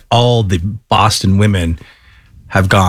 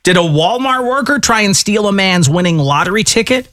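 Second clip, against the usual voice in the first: higher-pitched announcer tease; radio teaser read; 9 semitones higher than usual. Acted. Host teasing upcoming stories to listeners, radio teaser read. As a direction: punch up each question like a radio host.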